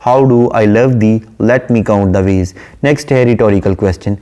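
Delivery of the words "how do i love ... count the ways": slow, measured quote of the poet; slow verse reading addressing her husband; poem recitation. Shown as a demonstration. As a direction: read the opening line slowly, as the poet. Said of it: "address करते हुए कहती है".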